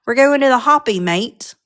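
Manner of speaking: light mock British accent. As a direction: put on a loose British accent, slightly Australian. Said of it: "like, a British person would say".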